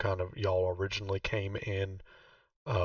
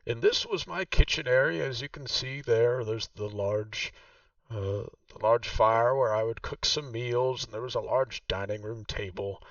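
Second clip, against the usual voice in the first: Vaku's voice; 3 semitones higher, 4 dB louder than usual. Acted. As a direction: play the proud host showing her old home. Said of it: "and she says".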